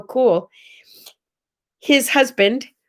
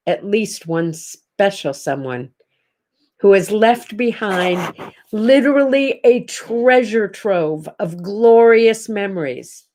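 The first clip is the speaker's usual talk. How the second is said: measured, heartfelt words with long pauses; sincere consoling; 2 semitones lower than usual. Real, not acted. Streamer comforts viewers who lost someone, sincere consoling. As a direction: comfort the grieving, letting each phrase land.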